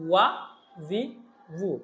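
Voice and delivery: "ওয়া, ভি, ভু" formed with the lips; careful lip-made consonant on "ওয়া, ভি, ভু"; articulated from lips. Shown as a demonstration. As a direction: start each of "ওয়া, ভি, ভু" with a lip sound. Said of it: "এটার উচ্চারণ ঠোঁট থেকে".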